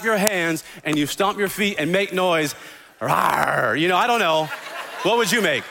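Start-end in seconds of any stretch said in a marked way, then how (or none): 3.0-3.8 playful little roar; a light pretend growl to scare; dinosaur voice. Shown as a demonstration. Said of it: "What kind of sound would you make?".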